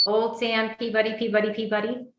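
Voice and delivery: put-on "Old Sam Peabody, Peabody, Peabody" in an even, repeating birdsong rhythm; birdsong mnemonic. Shown as a demonstration. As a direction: recite "Old Sam Peabody, Peabody, Peabody" like a sparrow's song. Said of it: "Mnemonic is".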